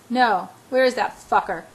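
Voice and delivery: furious. Acted. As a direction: spit it out in rage. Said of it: "He's furious".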